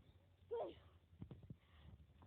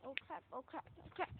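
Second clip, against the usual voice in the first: scared; 4 semitones lower, 7 dB quieter than usual. Real, not acted. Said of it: "I'm so scared now".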